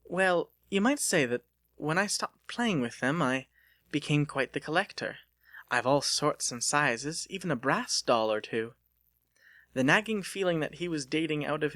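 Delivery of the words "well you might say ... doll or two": put-on a refined young woman teasing her suitor; Delia's voice. Delia talking to Lucas.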